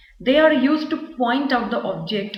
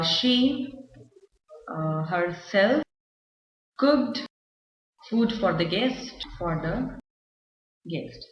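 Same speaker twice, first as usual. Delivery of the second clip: slow and halting, long gaps between words; drawn-out words with pauses and fillers; word-by-word dictation; much slower than usual. Shown as a demonstration. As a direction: dictate it bit by bit as if writing it out. Writing the example out.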